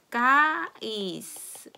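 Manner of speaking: "guys" weak s; Portuguese word. Shown as a demonstration. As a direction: draw out "guys", s weak at the end. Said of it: "약하게 발음해주는 거예요".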